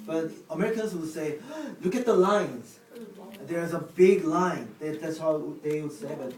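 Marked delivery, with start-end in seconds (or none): 1.6-4.7 gasping at the sight, louder mock astonishment; mock amazement. Acting out Americans spotting a long queue, mock amazement. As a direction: point out something huge, louder.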